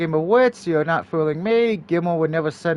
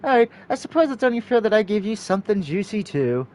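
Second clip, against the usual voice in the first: wicked teasing; 2 semitones higher than usual. Acted. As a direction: purr it out wickedly. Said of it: "wicked smile".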